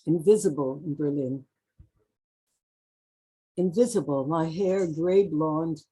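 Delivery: deliberate, measured poem delivery; poetry reading. Acted. Poet reading of passing unseen in Berlin, measured recital. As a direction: announce the title, then recite in spaced phrases. Reads own poem aloud.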